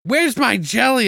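hammed-up high query; silly character voice. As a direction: drag it out like a goofy guy calling from the bathroom. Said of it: "And he's like".

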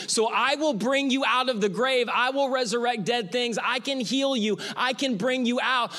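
Jesus voiced with full preaching fervor; impassioned Jesus. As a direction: preach Jesus' promise with rising conviction. Jesus speaking to listeners.

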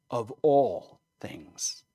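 slow breathy whisper of awe. Real, not acted. Preacher to congregation about the Lord, whispered. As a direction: hush it, drawn out and voiceless.

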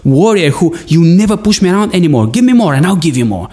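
a warrior taunting, pushed and fired up; retold raging taunt. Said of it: "I was raging, I was fuming".

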